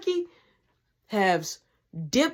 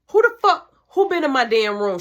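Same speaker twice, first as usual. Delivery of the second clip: mock furious mom; 4 semitones higher, 6 dB louder than usual.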